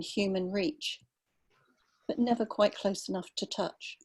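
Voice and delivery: measured literary reading with unhurried pauses; story reading. Acted. Writer reading her piece about a dawn walk to listeners, calm and measured.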